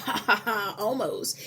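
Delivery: a light taunting ha ha ha, then almost; playfully mock the thirsty traveler with a laugh; teasing vending machine laughing at the traveler. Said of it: "the vending machine was laughing at you".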